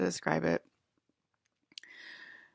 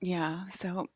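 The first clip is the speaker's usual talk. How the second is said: loopy and delirious; giddy, overtired voice; sleep deprived; slower than usual. Real, not acted. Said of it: "I'm delirious".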